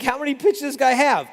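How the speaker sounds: high, loud, baffled batter; amazed batter. Retold or imitated. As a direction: sound stunned by the pitcher's signs. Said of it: "the batter's like".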